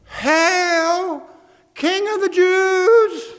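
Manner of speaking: high, drawn-out mock salute; sarcastic. Soldiers mocking Jesus as they kneel before him, sarcastic. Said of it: "in a very sarcastic voice".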